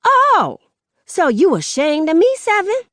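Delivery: very high, loud wounded challenge; outraged mother. Acted. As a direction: shriek it, stung and furious. Mother hurt and furious.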